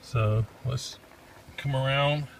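straining while climbing under desk; grunting with effort, talking through strain. Real, not acted. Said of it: "Excuse the grunting".

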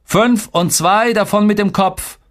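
put-on very high, drawn-out kid brag; squeaky-high one-upmanship; competitive little boy. A narrator's reading. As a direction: outdo your brother in a high child's voice. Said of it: "wetteiferte Tolga".

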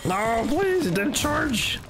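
high, desperate begging; panicked pleading. Real, not acted. Begging as monster chases.

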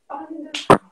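teacher calling across the studio, stressing only; insistent repeat. Shown as a demonstration. To the dancers, repeating the correction loudly.

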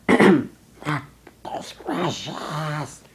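slow whispered golem. Acted. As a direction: breathe it out like Gollum. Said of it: "I use my, my golem voice".

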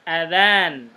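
azan said with a short first a, /adan/; short vowel demo. Shown as a demonstration. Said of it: "Jadi, A-nya pendek".

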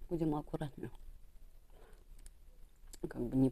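talking while eating; chewing. Real, not acted. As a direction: mouth partly full of fish. Seen 3: Fish held at mouth, biting and cheeks chewing through ~3.5s.

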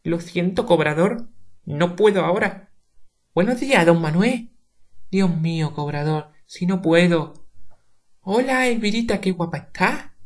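mock her sweet excuses to the collector and fawning hellos; a hint of a simpering lady dodging the bill; imitating Doña Asunción. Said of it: "imitando la voz".

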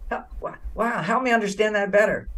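soft, interested invitation; inviting demo. Shown as a demonstration. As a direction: say it gently and curiously, inviting her to go on. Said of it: "Invite her".

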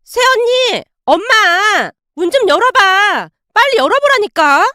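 high, urgent calling out; acted impatient yell through a door; shouting at the door. A narrator's reading. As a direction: demand to be let in, fast. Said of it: "소리를 질러대고 있었어요".

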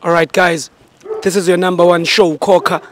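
loud, punchy presenter voice; show host intro. Acted. Host opening the show for viewers, loud presenter voice.

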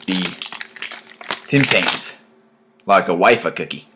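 a lightly put-on, shaky Australian accent; self-mocking Australian accent; bad Australian accent. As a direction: play an Aussie host, badly and on purpose. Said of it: "my shitty attempt at an Australian accent".

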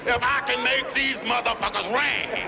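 slow, drawn-out mock threat; husband's threat. Husband eyeing the fake doorbells, slow hammed-up threat. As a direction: stretch the threat out slowly, playing the husband.

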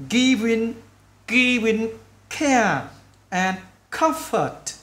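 slow diction with final sounds marked; slow, word by word. Shown as a demonstration. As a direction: pause after each word for learners. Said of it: "mình nói chậm từng chữ". (nói chậm, nhấn âm cuối)

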